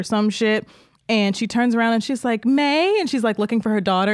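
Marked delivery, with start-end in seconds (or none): 2.4-3.0 lightly acted questioning call, pitched up; mother calling. Mother looking for her daughter in a soap opera, lightly imitated call.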